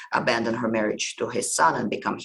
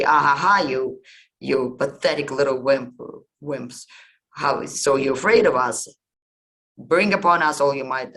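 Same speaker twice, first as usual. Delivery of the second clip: scornful laugh, then louder jeering at the god; mocking taunt; 2 semitones higher, 4 dB louder than usual. Nards jeering at God, daring him to strike, mocking laugh. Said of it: "The Nards say".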